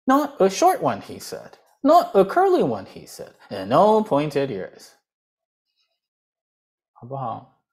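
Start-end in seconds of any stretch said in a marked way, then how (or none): 0.0-4.9 storybook reading. Acted. Teacher reads a picture book aloud to show tune. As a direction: read it like a children's story.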